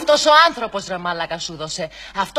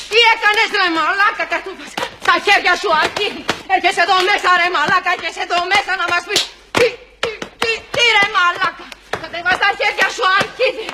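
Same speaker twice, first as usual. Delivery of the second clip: angry rant; 5 semitones higher than usual. Acted. Scolding Takis for oversleeping, hammed-up furious yelling. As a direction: tear into him, raging.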